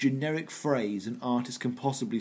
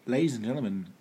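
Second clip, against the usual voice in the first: announcer opener; faster than usual. Shown as a demonstration. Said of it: "I don't say that anymore".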